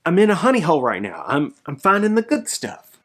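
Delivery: a digger who just hit the jackpot; excited inner voice. Retold or imitated. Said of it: "I'm like".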